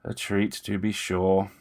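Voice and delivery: slow, ragged, breathy gasps between words; winded vampire panting out the words. Acted. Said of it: "his breath ragged, his voice panting".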